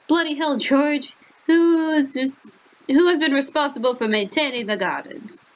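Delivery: put-on high, indignant British accent; Ronald Weasley. Master questioning George about the gardens, British accent. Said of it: "I'm suddenly Ronald Weasley".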